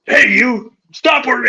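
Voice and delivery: high, hammed-up angry fisherman yelling; mock angry yell. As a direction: play the furious fisherman across the creek.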